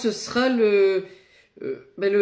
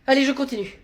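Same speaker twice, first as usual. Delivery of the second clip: usual speaking voice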